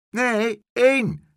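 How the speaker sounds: very high, loud "één"; loud correction. A narrator's reading. Horse's head correcting the boy, loudly. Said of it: "zei de paardenkop".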